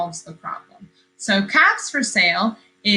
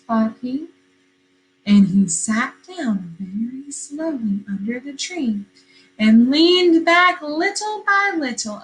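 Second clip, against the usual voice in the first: storybook reading. A narrator's reading. Teacher reading a picture book to her class, lively storytelling. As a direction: read it like story time on the rug.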